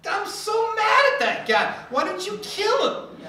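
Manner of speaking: hammed-up fury at that guy, with a laugh; mock angry David. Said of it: "He's like".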